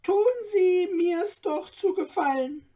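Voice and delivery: lively little dwarf. A narrator's reading. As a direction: chatter on like an excitable dwarf. Dwarf pleads with Stefan.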